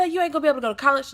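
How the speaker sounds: high, rushed scolding; mock angry sister. Sister trying to scare the teen, mock angry scolding. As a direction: rattle off a sister's telling-off. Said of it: "So she's pissed off".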